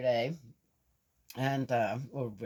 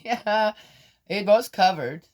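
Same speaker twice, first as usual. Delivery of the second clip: local saying; 7 semitones higher, 10 dB louder than usual. Retold or imitated. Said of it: "Here, you would say".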